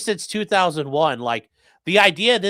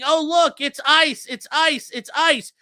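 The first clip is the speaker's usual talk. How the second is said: mock loudspeaker callout; 7 semitones higher than usual. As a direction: blare it like a truck speaker. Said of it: "the speakers blasting".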